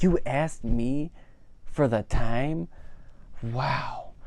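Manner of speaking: awestruck Ken. Retold or imitated. Ken stunned someone noticed him.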